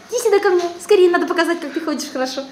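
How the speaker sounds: high squeaky coaxing. Real, not acted. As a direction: coax the pet up high and bright. Coaxing the pet to come.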